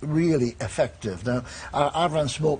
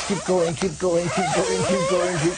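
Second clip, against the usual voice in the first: blowing out hard; 4 semitones higher than usual. Real, not acted. Coach urging a hard blow.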